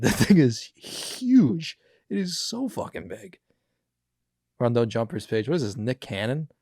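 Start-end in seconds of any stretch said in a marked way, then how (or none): 0.0-3.4 slow, laughing, drawn-out, higher and louder; laughing amazement. Real, not acted. Telling viewers about the huge Great Dane, laughing and amazed. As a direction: stretch it out through a laugh.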